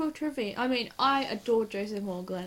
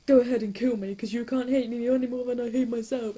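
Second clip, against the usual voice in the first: mock dramatic plea; 2 semitones higher, 7 dB louder than usual. Quoting Matt's dramatic line.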